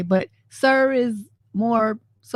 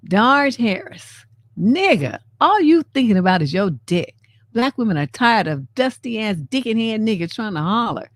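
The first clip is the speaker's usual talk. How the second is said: reading her angry reply. Acted. Reading her furious reply aloud to the young man. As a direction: tear into him with every line. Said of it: "shall I read it in my voice?".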